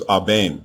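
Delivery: Abem said ah-BAME, two syllables; correct pronunciation. Shown as a demonstration. Teacher corrects the king's birth name, Abem as ah-BAME. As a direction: say Abem with a long A ending in M. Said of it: "not Abijam or Abiyam".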